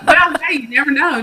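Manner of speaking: playful, laughing reply. Real, not acted. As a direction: toss it back with a laugh. Playful comeback to joke.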